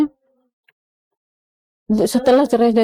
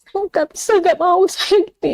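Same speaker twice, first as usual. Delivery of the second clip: much higher, insistent refusal; retold refusal; 10 semitones higher than usual. Wife refusing her husband, high insistent retold protest. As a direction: throw back a flat no, pitched high. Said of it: "saya bilang gitu".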